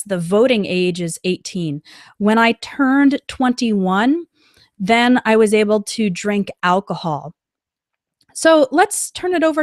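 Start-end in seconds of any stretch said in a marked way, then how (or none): 2.2-7.3 slow example. Shown as a demonstration. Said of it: "we use the verb turn".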